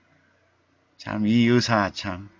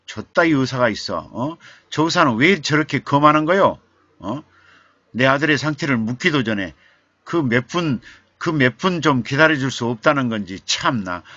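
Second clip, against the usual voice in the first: loud, high, fast angry complaint; father venting at the nurse, furious; indignant outburst; 4 semitones higher, 4 dB louder than usual. Retold or imitated. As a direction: vent fury at the departing doctor. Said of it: "화가 나가지고".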